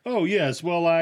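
a mock-polite Canadian backing away; flustered politeness. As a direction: stammer it like a cornered polite Canadian. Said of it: "very polite".

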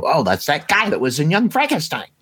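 high, quick burst of recognition; excited recognition. Retold or imitated. Viewer spotting a familiar actor by his voice, excited recognition. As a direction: blurt it out as if suddenly placing a face. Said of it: "you immediately go".

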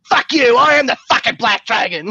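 imitated explosive anger. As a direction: blow up from zero, imitating a furious asshole. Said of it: "he just goes from zero to blown out asshole".

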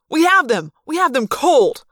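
loud, insistent shout; a soldier shouting that they have them trapped; eager shout. Acted. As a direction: yell it like you're sure you've won. Soldier protesting, keen to fire.

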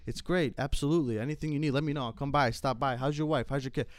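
smooth and attentive like a businessman owner; a hint of slick restaurant owner; businessman host. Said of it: "they want you to be like a businessman".

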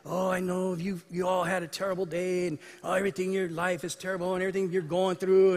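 mildly mournful mock radio prayer; doom and gloom. Radio host praying for listeners, mock doom and gloom. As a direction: lightly imitate a gloomy, commiserating host. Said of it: "was like doom and gloom".

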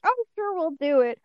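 high-pitched, easy imitated agreement; mock agreement. Everybody agrees to find the dude, high mock-agreeable voice. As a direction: pitch it way up, playing the group.

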